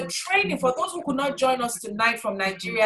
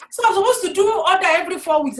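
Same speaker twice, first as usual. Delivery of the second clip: higher, incredulous ask; mock puzzled question; 6 semitones higher, 3 dB louder, faster than usual. Imitating a confused member asking about orders, mock puzzled.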